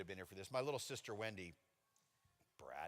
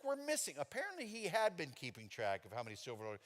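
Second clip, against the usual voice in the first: dad questioning; 11 semitones higher than usual. Retold or imitated. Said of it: "He's like".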